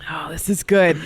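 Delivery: breathy whispered delight. Real, not acted. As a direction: hush it out with glee.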